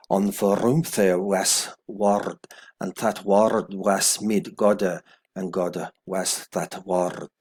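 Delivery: put-on slow, careful Old English recitation; Old English reading. Shown as a demonstration. Teacher reading verse one aloud in Old English. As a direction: read each Old English word out slowly. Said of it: "Okay, verse one".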